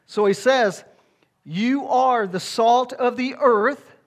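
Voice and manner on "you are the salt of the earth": slow, high and loud, You are the salt of the earth; slow emphatic preaching; proclaiming. Real, not acted. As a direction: declare it slowly to the congregation.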